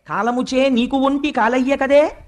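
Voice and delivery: slow, measured Telugu poem recital; stately, drawn-out scriptural recitation; verse recitation. Acted. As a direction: draw out each phrase of the verse. Repeats the verse line.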